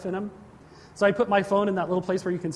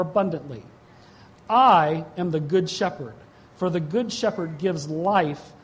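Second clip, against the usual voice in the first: scripture reading; 4 semitones lower than usual. Acted. Preacher reading John to the congregation, solemn scripture reading. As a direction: read the verse out with measured weight.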